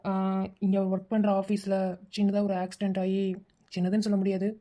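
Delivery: low, halting bad-news voice; grave, hesitant. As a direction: break terrible news carefully, with pauses. Caller breaks news of death.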